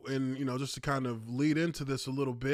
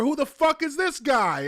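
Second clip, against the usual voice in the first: mock outraged commenter; 9 semitones higher, 5 dB louder than usual. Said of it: "the same thing in the comments".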